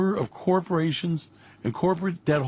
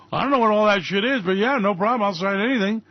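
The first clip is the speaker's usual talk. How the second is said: mock Trump; 4 semitones higher than usual. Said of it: "Donald Trump said".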